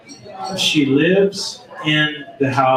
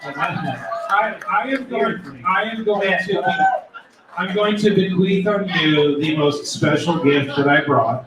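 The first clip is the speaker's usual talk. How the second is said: alien voice; 4 semitones higher than usual. Pretend. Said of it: "I wanna hear your best alien sound".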